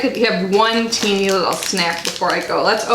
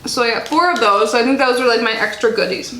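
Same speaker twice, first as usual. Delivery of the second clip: mouth full. Real, not acted. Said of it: "Sorry, I'm, like, chewing while talking".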